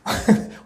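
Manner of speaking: brief breathy chuckle; short laugh. Real, not acted. Preacher to congregation on getting angry, short laugh. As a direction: let out a quick laugh.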